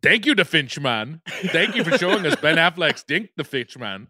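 bad Scandinavian accent, laughing through it; a clumsy put-on Scandinavian accent; mock Scandinavian accent drifting between countries. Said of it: "I'm trying to be Scandinavian".

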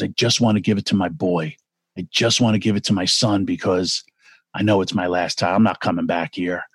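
low, subdued imitation of a crying man; understated sorrow, pitch dropped, no real sobs; retold tearful plea. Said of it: "And he's crying, dude".

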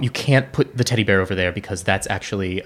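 put-on very serious child. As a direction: lay down make-believe rules in all seriousness. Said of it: "suddenly becomes, like, very serious".

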